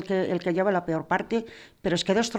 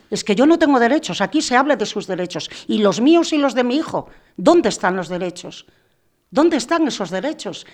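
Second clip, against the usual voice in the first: indignant protest; 2 semitones higher, 4 dB louder than usual. Real, not acted. Mother protests that nobody defends her rights. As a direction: push back hard, voice rising.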